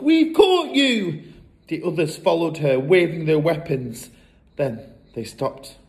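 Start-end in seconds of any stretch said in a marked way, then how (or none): 0.0-1.2 high, drawn-out cry; triumphant yell. A narrator's reading. Matilda confronts supposed burglars, triumphant yell. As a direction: shout it slowly in triumph. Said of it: "she yelled".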